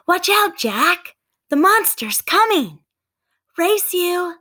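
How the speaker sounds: high, loud mock warning; playful shout. Sister calling back to Jack, high loud mock warning. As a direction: shout it gleefully down the road.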